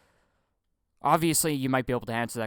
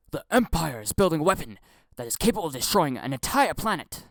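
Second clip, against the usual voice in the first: louder, punchy trailer read; with enthusiasm; 3 semitones higher, 4 dB louder than usual. Shown as a demonstration. Showing how the boring line should be done, enthusiastic. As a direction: sell the line with some enthusiasm. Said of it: "this is how it should be done".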